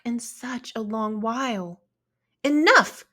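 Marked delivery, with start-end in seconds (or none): 2.4-3.1 loud, higher burst of frustration; loud fed-up exclamation; exclaiming. A narrator's reading. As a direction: slam the word down like a fed-up kid. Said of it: "Wentz exclaimed".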